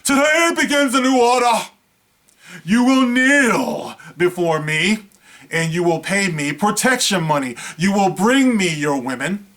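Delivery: booming overlord voice, rising to a roar; megalomaniac rant. Pretend. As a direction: lord it over them like a tyrant. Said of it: "I would be like".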